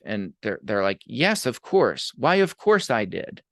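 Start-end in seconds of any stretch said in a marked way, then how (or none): 1.0-3.4 slow, exaggerated fake sincerity; drawn-out mock yes; mock sincere. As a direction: play the smug liar agreeing eagerly. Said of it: "they're lying through their teeth".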